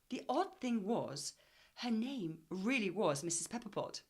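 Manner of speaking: lively storybook reading voice; story reading. A narrator's reading. Teacher reading the class a story, lively storybook voice. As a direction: read it like a children's story.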